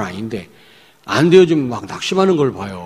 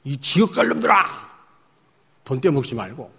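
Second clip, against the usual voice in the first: preacher imitates a cult leader scolding members, mock berating. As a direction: ham up a preacher berating his flock. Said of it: "이렇게 설교를 하더라니까".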